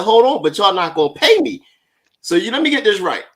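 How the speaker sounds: high, laughing disbelief; mock outrage at the boss, laughing through it; incredulous retort. Retelling his reply to the boss, incredulous and laughing. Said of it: "I said".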